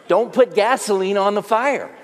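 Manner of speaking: lightly voiced fussing mother; mock a mom's nagging; a hint of an overprotective mother; mommy voice. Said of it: "your mommy saying".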